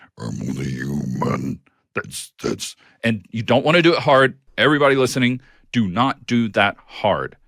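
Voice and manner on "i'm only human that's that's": very low, soft, deep grinding voice. Speaker demonstrates a technique to a co-host and listeners: low voice. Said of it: "It's low voice like this".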